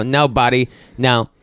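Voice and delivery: rising, preachy sing-song; half-sung pompous speech; self-righteous. Retold or imitated. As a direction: swell up proudly. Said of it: "And I go".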